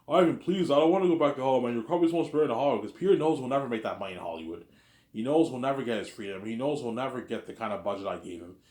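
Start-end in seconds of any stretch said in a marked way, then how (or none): 0.1-2.8 begging. Retold or imitated. Actor begging Ivan not to send him back to Hollywood, mock pleading. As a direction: beg urgently as an imitated actor. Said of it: "they're gonna beg".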